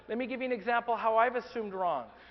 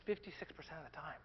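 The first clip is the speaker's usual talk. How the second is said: hushed repetition; 5 semitones lower, 15 dB quieter than usual. Acted. Repeats the statistic for effect.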